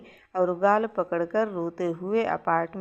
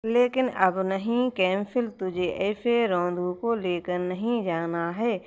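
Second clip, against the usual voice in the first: mock sulk. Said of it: "थोड़ा रूठने का नाटक".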